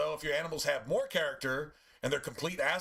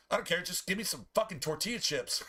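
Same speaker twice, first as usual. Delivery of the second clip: mock shouted demand; 3 semitones higher than usual. Voicing the begging dog.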